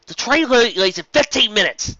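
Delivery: high, loud panicked cry; frantic high yelp; panicked character voice. Acted. Panicked about the train.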